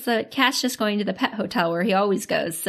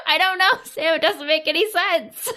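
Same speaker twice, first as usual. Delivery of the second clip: high-pitched, giggly bafflement; laughing exasperation; 8 semitones higher than usual. Real, not acted. Podcaster baffled by the plot to cohost, laughing exasperation. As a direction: protest helplessly through laughter.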